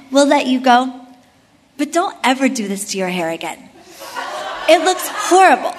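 official's scolding told through laughter; mock the blunt officer while laughing; laughing retelling. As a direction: border officer scolding about hair, laughed out. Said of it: "but they said".

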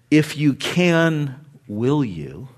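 slow, doubting "If you can, will you?"; a hesitant, conditional "If you can"; doubtful condition. Shown as a demonstration. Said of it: "That's not what he says".

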